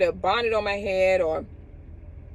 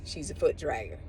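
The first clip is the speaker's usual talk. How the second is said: mock put-down; 5 semitones lower, 10 dB quieter than usual. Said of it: "back then we would say".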